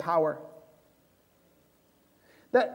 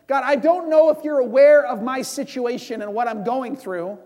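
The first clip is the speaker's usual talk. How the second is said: indignant complaint; 2 semitones higher, 4 dB louder than usual. Pretend. Ananias pleading his case to God, exasperated and loud. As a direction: fill God in, fed up and incredulous.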